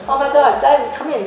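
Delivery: re-enacted starstruck gush; suddenly changed, gushing. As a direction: switch to an eager, flustered greeting. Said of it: "Suddenly I was completely changed".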